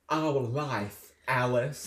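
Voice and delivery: put-on slow, melodramatic British-accented line; mock British accent. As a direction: imitate an actor's slipping British accent. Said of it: "He got so British there".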